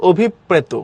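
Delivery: "অভিপ্রেত" as obhip-preto; সঠিক উচ্চারণ. Shown as a demonstration. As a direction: double the p in "অভিপ্রেত". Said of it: "এটার উচ্চারণ হলো". ("অভিপ্রেত"-এ দুইটা প)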